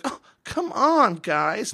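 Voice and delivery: high, loud, drawn-out mock whine; bitchy whining. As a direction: imitate a whiny guy bitching in protest. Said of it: "he's, like, totally bitchy about it".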